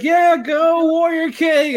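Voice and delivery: high, loud cheering yell; mock cheer. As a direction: cheer him on at the top of your voice. Retelling Emperor cheering loudly.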